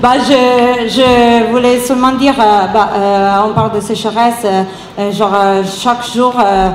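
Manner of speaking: French spoken with a real Italian accent; non-native French with Italian accent. Real, not acted. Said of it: "français c'est un peu comme ci comme ça".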